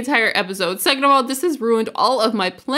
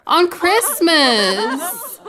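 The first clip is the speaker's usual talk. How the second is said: incredulous laugh; 5 semitones higher, much slower than usual. Real, not acted. Mom died on Christmas.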